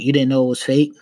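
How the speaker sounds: mock-doubting question, rising at the end; smirking cop. Cop doubting a man's excuse, smirking. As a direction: say it through a smirk, disbelieving. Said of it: "he kinda smirked it".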